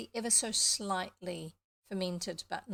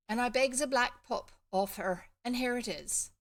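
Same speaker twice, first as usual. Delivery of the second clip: higher Somerset country voice; slight Somerset accent; 4 semitones higher, 5 dB louder than usual. Acted. Farm boy shows the pup he begged, slight Somerset accent. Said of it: "I think it's slightly Somerset".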